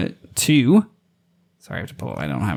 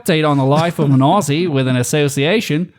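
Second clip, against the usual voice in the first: lightly put-on Aussie reading a message; hint of Australian accent; 3 semitones higher than usual. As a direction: read it like a cheeky Australian. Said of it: "I only have one Australian accent".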